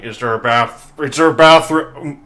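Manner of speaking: a light gurgle, as if through water; words through a mouthful of water; gurgling voice. Acted. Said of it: "speak through a mouthful of water".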